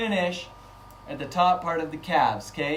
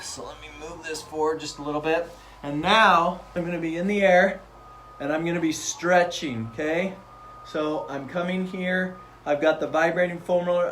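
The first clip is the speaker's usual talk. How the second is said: voice shaking. Real, not acted. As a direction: voice rattled by vibration. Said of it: "I don't know if you can hear my voice shaking".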